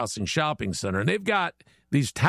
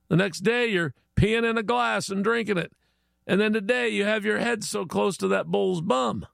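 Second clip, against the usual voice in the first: higher-pitched, mildly indignant Aussie bloke; exasperated Aussie neighbor; 4 semitones higher than usual. Acted. Aussie neighbor confronts newcomer over strange customs, mildly exasperated. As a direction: play a fed-up Aussie, pitch lifted. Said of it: "he went up to the Chinese and he said".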